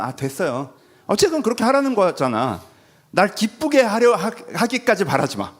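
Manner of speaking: sulky defiance. Retold or imitated. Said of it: "이런 최소한의 자존심".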